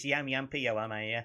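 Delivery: "Yam yam, yo, am I, yeah" run together; Black Country dialect. Shown as a demonstration. Host sharing a favourite saying, dialect "Yam yam" phrase. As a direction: roll "yo, am I, yeah" out as one word. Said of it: "one of my favourite ones is".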